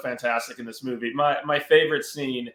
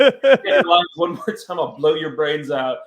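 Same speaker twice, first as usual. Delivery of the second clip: laughing mock threat; 3 semitones higher, 6 dB louder than usual.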